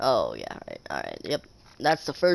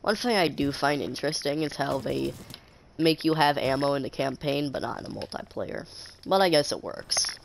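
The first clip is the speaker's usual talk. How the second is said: stuffy, congested voice; blocked nose. Real, not acted. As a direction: talk through a blocked nose. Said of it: "I am mega stuffy".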